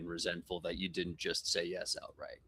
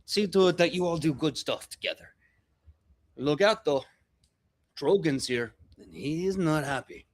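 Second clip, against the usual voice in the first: higher, louder called-out orders; shouting orders; 6 semitones higher, 4 dB louder than usual. Acted. Gomo shouts orders to three goblins, loud and high. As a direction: call across to the crew. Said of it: "shouts to three people".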